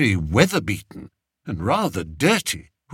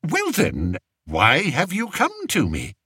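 a touch of forced kindness, raised king voice; kindly; 7 semitones higher than usual. Acted. King asking the shepherd why he came, kindly. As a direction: ask gently though impatient. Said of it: "as kindly as he knew how".

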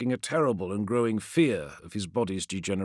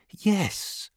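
whispery telepathic voice; 9 semitones higher than usual. A narrator's reading. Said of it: "said a voice in his head".

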